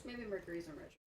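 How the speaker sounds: quiet mumble under the breath; barely audible aside; mumbling. Real, not acted. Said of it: "Sorry, what was that?".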